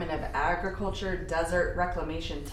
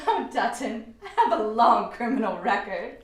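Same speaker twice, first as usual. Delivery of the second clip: laughing; 5 dB louder than usual. Acted. Joking reply after his laugh.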